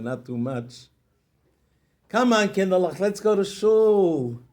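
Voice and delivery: put-on happy father calling his kids; cheerful greeting. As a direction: greet the children with joy.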